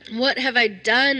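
slow, drawn-out despairing What have I done?; crying out again. A narrator's reading. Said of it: "I cried again".

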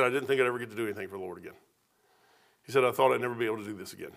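retold tearful words. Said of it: "He said, almost crying".

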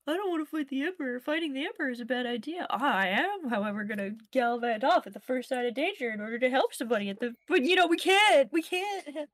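fast sarcastic grumble under breath; mock him under your breath, quickly; sarcastic muttering. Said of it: "under her breath sarcastically".

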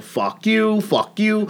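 high-pitched mock defiance; retold outburst. Telling off everybody at the office in a story, mock-angry. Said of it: "I look at everybody, I go".

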